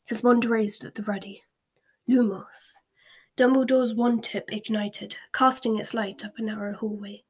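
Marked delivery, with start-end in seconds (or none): 2.1-2.7 whispered spell. Acted. Spell whispered in dark house.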